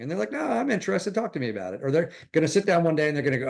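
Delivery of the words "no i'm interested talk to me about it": high mock friend voice. Friend suddenly interested, voiced high.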